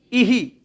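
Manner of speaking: इही said as i with an echoing hi; teacher sounding out the visarga echo; visarga sound demo. Shown as a demonstration. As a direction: let the visarga in इही copy the i vowel. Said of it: "ध्वनि किसकी आई last में".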